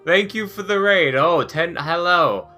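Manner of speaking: bright excited stream greeting; cute anime streamer. Real, not acted. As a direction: greet the raiders with delight.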